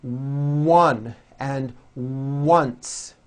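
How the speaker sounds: one and once said very slowly with a W start; one and once, W at the front. Shown as a demonstration. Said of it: "W sound ... words".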